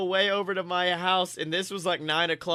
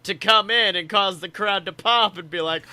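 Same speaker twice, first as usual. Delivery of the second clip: imitating the crowd; 4 semitones higher, 6 dB louder than usual. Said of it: "the crowd will actually go".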